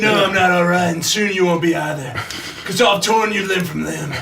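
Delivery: lightly growled, threatening werewolf; menacing werewolf voice. Pretend. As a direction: threaten like a beast. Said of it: "Why did your voice change".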